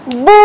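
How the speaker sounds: बू with a long, held "oo"; syllable demo. Shown as a demonstration. Teacher adding the vowel sign to ब, बू drawn out. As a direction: stretch the vowel of बू. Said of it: "ब पर लगाएंगे तो".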